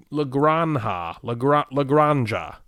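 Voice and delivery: La Granja with an h sound, GRAHN-ha; slow pronunciation. Shown as a demonstration. Sounding out a Spanish game title, unsure. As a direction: stretch out La Granja slowly. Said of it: "don't like saying it".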